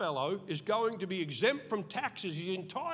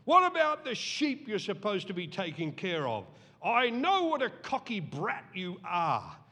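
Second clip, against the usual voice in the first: angry brother; 3 dB louder than usual. Retold or imitated. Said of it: "he was angry".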